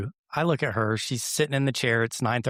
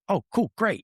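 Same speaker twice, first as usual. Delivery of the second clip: mock cheerful; 9 semitones higher than usual. Reply to friend's brush-off.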